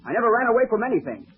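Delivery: indignant denial. Acted. Accused he might run away.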